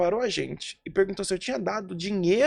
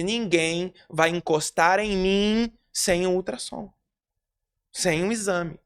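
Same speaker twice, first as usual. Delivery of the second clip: firm protest; 3 dB louder, slower than usual. Retold or imitated. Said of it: "eu fiz um barraco".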